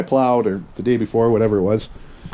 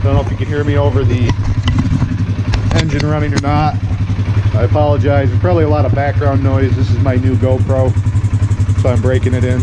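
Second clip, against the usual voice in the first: raised voice over the engine noise; talking over engine; 3 dB louder than usual. Real, not acted. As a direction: speak up over a running motor.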